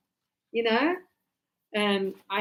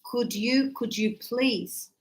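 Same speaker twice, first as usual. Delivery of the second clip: soft, slow, gentle could you please; polite request; 5 dB quieter, slower than usual. Shown as a demonstration. Teacher modelling a polite request, soft and slow. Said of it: "I always say use could you".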